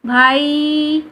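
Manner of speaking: भाई called long, as if across a distance; calling out. Shown as a demonstration. Teacher showing how you call a brother from afar. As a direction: call your brother from far away. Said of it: "इस तरीके से बुलाते हो".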